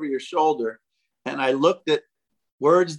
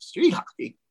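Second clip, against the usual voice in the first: "Street hockey?" asked higher, in disbelief; surprised; 6 semitones higher than usual. Retold or imitated. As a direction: echo "Street hockey?" as a startled question. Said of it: "And I went".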